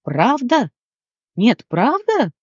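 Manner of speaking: high, amazed disbelief; gasping surprise. Acted. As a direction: gasp it out in wonder. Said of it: "ахнул Габриэль". (ахая от изумления)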